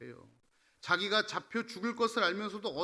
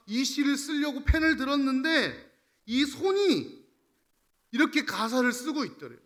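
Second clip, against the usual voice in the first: higher, forceful sermon storytelling; impassioned preaching; 8 semitones higher, 8 dB louder than usual. Real, not acted. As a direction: preach it with mounting fervour. (격정적으로 외치는 설교조)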